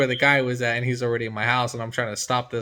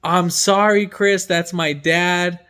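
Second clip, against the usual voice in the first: mock yell; 4 semitones higher, 4 dB louder, slower than usual. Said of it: "I hear this girl yelling".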